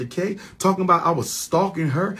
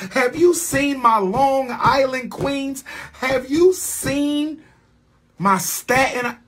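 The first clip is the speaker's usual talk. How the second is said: slow chant climbing ever higher; building roll-call; 9 semitones higher, slower than usual. Real, not acted. Man boasts of his borough queens, slow, escalating and high. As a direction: stretch each question, pitch rising to a peak.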